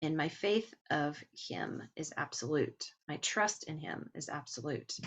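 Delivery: ordinary talk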